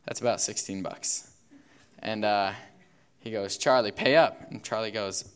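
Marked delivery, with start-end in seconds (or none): 3.6-4.5 louder demand to pay up. Acted. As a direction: bark the order at the friend. Roger demands payment.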